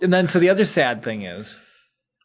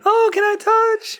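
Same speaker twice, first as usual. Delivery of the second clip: very high mock-excited squeal; gushing fan. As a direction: imitate an overeager fan asking in a high pitch. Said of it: "people would have been like".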